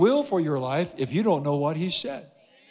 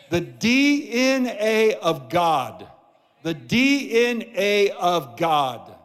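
D N A drawn out slowly, letter by letter; slow, weighty emphasis on each letter of D N A; emphatic repetition; 2 semitones higher, slower than usual. Real, not acted. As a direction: preach it slowly, letting D N A land. Preacher repeats key phrase emphatically.

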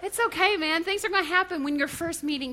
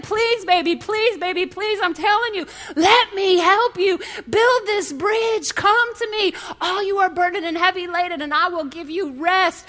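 God pleading; 3 semitones higher, 4 dB louder than usual. Pretend. God begging his child to let him help, loud and tender. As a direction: plead like a loving father.

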